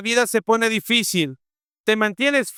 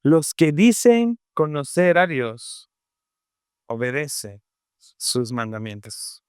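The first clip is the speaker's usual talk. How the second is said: solemn scripture; 4 semitones lower than usual. Acted. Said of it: "y por eso dice".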